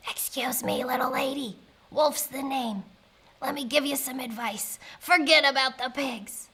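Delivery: lightly voiced wolf character; understated, confiding wolf voice; sly wolf. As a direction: offer advice like a wolf in confidence.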